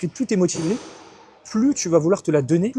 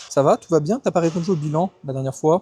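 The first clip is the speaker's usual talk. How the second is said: coach checking on clients; 2 semitones higher, 4 dB louder than usual. Retold or imitated. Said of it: "J'appelle mes clients".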